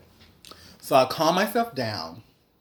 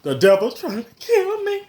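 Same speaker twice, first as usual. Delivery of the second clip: high, loud panicked wail; panicked cry; 14 semitones higher, 6 dB louder than usual. Retold or imitated. Panicking at McDonald's that the devil is after her. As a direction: cry out in mock terror. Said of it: "I was like".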